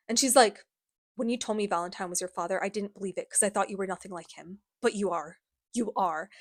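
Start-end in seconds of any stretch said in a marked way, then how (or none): 1.2-6.3 mock wounded accusation. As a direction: act quietly betrayed. Acted hurt accusation in quarrel.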